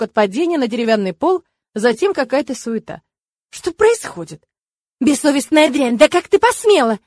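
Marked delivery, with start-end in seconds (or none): 3.5-4.5 startled question. A narrator's reading. Just woken, confused. 5.0-7.0 high, loud furious shriek; shrieking nun. A narrator's reading. Nun shrieking at the novice who kicked her, furious. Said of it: "Завизжал неприятный".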